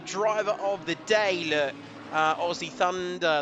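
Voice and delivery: a light take on Martin's way of talking, set apart from own voice. Retold or imitated. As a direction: read the driver's name the way Martin would. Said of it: "Not sure why I say that like Martin".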